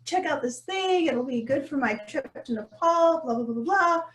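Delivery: lightly hammed-up eager optimism; imitating her eager self. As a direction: play up your own naive excitement. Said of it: "I'm like".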